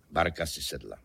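low, deadpan echo; hluboká ozvěna. A narrator's reading. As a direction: drop the pitch to echo the line before. Ozvěna předchozí věty hlubším hlasem. (hluboko položená komická ozvěna)

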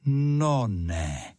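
drawn-out, falling cry of wonder; amazed exclamation. A narrator's reading. Student spotting the red rose, exclaiming in amazement. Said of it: "vykřikl".

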